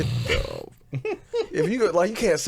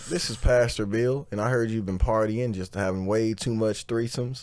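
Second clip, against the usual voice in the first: pastor voice. Retold or imitated. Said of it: "Like, a pastor".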